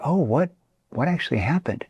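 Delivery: gentle empathetic question; concerned tone. Shown as a demonstration. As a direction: ask it like you truly care. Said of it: "Now notice what I did".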